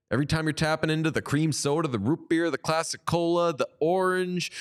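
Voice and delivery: fast rising excited flavor rundown; excited rapid list. Real, not acted. Host hyping soda flavors to listeners, fast and excited. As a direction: rattle off the flavors with growing excitement.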